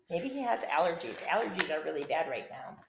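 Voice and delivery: plain reading voice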